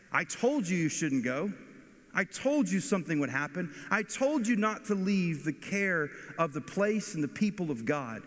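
wag the finger and lecture her; scolding villager. Acted. Village neighbour blaming Naomi to her face, rising scold.

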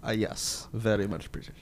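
shaky attempt at British accent; put-on British accent. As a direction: play British and let the accent slip. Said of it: "I completely lost the accent there".

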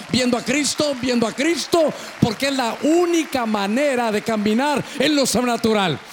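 insistent, exhorting sermon voice; preaching. Real, not acted. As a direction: drive each repeated phrase at the congregation.

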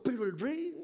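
dismissive aside. Acted. Believers brushing off the king.

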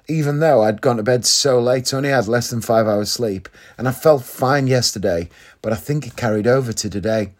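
usual speaking voice

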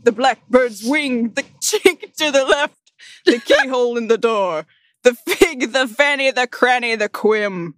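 a hint of a hammed-up preacher, breaking into giggles; mock-solemn poem reading. Reading a ridiculous poem aloud to friends in mock solemnity. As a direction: read it grandly, barely holding back laughs.

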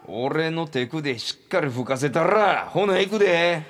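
pushy seducer. Acted. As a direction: build up slowly, then announce the move loudly. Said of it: "いきなり風を吹かそうとし始めた周平魂".

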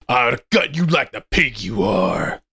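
threatening. Acted. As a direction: promise violence slowly. Narrator threatens Alpha.

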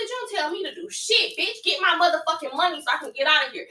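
a mock angry tirade, lightly acted; retold cussing out. Retelling how she cussed out the agent, mock angry. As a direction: replay the fury without truly shouting. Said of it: "I went off on her".

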